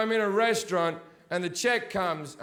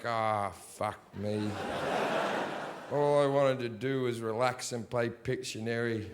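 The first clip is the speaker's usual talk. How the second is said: mock weary groan; 9 semitones lower, 6 dB quieter than usual. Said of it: "you're just like".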